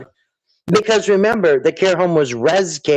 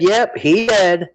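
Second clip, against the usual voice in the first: imitating Betty; 2 semitones higher, slower than usual. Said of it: "And you said".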